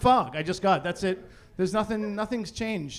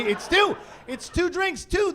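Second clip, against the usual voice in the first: incredulous; 11 semitones higher, 3 dB louder, slower than usual. Retold or imitated. Mocking doctor's drink limit.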